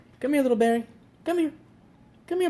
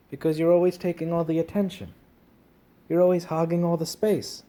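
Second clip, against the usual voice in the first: louder, teasing telling-off; mock scolding; 2 semitones higher, 5 dB louder than usual. Real, not acted. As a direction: scold the cat playfully. Scolding cat for hogging attention.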